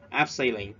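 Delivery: ABseiling, stress on the first syllable. Shown as a demonstration. Teacher showing students: first syllable stressed. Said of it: "chúng ta nhấn ở cái, cái âm đầu tiên".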